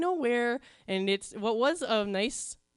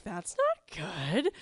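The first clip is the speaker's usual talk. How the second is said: worried sister; slower than usual. Retold or imitated. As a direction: sound suddenly concerned. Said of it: "she's like".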